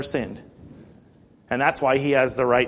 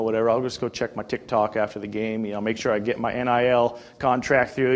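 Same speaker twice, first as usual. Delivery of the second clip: careless teammates; 4 semitones lower than usual. Retold or imitated. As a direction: shrug it off like you don't care. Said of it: "the rest of the guys are just like".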